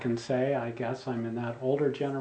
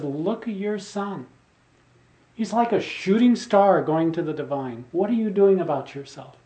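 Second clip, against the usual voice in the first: raised-pitch imitation of a swami's challenge; rousing rebuke; 5 semitones higher, 4 dB louder than usual. Swami holding up a son's example to the father, rousing rebuke. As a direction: press him hard to wake up. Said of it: "he was waking him up".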